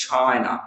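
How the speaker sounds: China with the weight on "CHI"; stress on first syllable. Shown as a demonstration. Teacher modelling China for learners, first-syllable stress. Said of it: "the first syllable".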